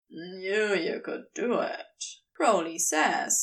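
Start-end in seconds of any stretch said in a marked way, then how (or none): 0.1-2.0 proud and blissful. Acted. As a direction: sink into the praise, sated. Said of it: "sounding proud and blissful".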